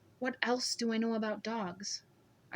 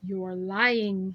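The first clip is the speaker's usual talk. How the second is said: flat menacing charge; accusing; 7 dB louder than usual. A narrator's reading. Scarred man accuses her of lying, menacing.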